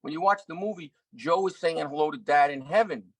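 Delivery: high, tough-guy Pesci imitation; a light impression of a wise-guy mentor; Joe Pesci voice. Joe Pesci teasing the young actor, tough-guy voice. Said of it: "He goes".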